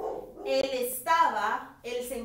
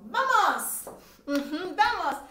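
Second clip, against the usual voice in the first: excited cheer; 4 semitones higher, 6 dB louder than usual. Real, not acted. Teacher cheering.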